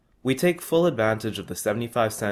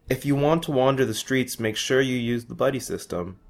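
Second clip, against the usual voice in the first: put-on 1 Spanish accent; 3 semitones higher than usual. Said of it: "warns Pablo in his Spanish accent".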